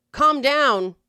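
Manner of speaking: blunt order; curt order. Retold or imitated. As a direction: bark it like an order. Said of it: "is an order".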